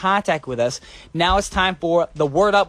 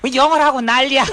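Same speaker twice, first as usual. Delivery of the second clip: mock fed-up complaint with rising pitch; imitating baffled listeners; 5 semitones higher, much faster than usual. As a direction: play a bewildered listener, building to an outburst. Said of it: "sitting there in the chair like".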